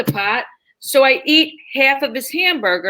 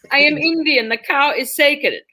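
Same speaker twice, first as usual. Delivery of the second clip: put-on slowing, solemn Indian-accented declaration; put-on Indian English. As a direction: play it as an earnest Indian cab driver. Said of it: "do the Indian bit".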